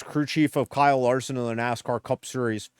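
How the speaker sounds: a hint of a put-on crew chief; lightly voiced race crew chief, self-important; Cliff Daniels impression. A streamer introduces himself as the crew chief, mild mock voice. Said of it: "the worst Cliff Daniels impression ever".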